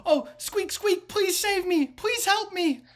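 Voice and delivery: loud, high rat-man squeal; high-pitched squeaky voice. Acted. Rat man begs the party for rescue, high-pitched and loud. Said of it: "He's got a very high-pitched voice".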